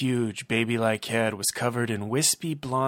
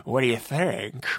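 creepy villain; 3 semitones higher than usual. Acted. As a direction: relish every word like a creep. Villain voice again.

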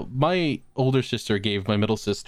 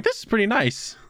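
put-on contented old man voice; 10 semitones higher than usual. Voicing Carl on nude deck.

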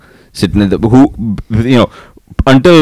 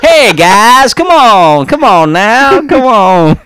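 higher, pleading put-on Indian accent; 13 semitones higher, slower than usual. Boy begging friends, exaggerated Indian accent. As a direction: coax the guys to play in an Indian accent. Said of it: "bullied in an Indian accent".

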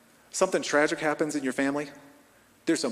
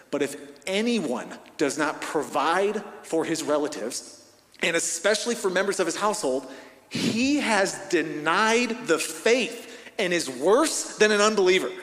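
starts level, then climbs higher and louder to a forceful finish; building scripture warning; 4 semitones higher, 3 dB louder than usual. Acted. Preacher reading Paul's warning to the men, building to loud. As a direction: read Paul's warning so it swells into a loud, slow climax.

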